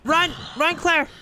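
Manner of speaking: high panicked scream; scared scream. Real, not acted. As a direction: scream in real fright. Zombie attack, screaming at game.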